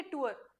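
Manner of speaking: "टूर" as "too-er", gliding vowel; "टूर" with a schwa before the r; correct pronunciation. Shown as a demonstration. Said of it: "it is".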